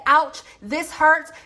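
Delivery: slow, drawn-out little ouch; mock hurt voice. Mocking a hurt partner who complains, slow mock whimper. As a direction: stretch it out like a wounded lover. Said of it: "and you said".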